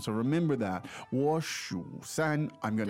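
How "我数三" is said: 数 drawn out with a third-tone dip; slow teaching demo of third-tone 数. Shown as a demonstration. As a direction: slowly say 我数三, dipping on 数. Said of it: "Now, that's third tone".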